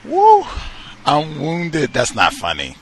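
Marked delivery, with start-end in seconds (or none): 0.0-0.4 loud whoop. Real, not acted. Host reacts to caller.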